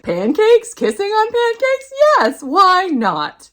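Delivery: high, loud, rising delight; excited delighted squeal. Retold or imitated. Seeing the book cover, squealing high and loud with delight. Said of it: "I was like".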